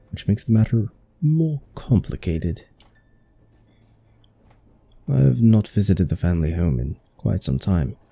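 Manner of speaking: put-on lightly done British accent, drifting toward Australian. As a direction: read the villain's plotting in a mild British accent. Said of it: "just default to British".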